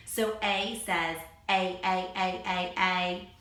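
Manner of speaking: A held as its name, ay; teacher sounds out the long A for children, ay; long A demo. Shown as a demonstration. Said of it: "Long vowel sounds say their own name".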